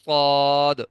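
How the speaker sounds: صاد with lips not rounded; a full صاد, lips kept flat; unrounded suad. Shown as a demonstration. Teacher shows صاد without round lips. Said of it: "ہونٹ گول نہ ہوں".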